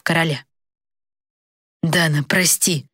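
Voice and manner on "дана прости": slow, troubled apology; mild worried plea; anxious apology. A narrator's reading. Young man anxiously apologizing to the princess. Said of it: "взволнованно произнёс Даррен".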